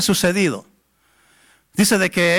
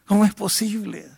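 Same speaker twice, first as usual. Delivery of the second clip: softer, hushed sorrowful plea to God; sad prayer; 3 dB quieter than usual. Retold or imitated. El predicador le ruega al Señor por la joven, triste y en voz baja. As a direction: pray quietly, pleading in sadness. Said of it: "Y yo triste".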